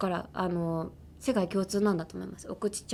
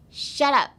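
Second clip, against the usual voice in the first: louder, higher snapped order; rude demo command; 8 semitones higher, 7 dB louder than usual. Shown as a demonstration. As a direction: cut them off rudely. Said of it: "Repeat after me".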